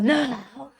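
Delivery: risada aguda e alta ao contar; riso alto. Retold or imitated. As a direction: rindo de repente, bem alto. Mãe chorando nega raiva. (risada alta contando da mãe)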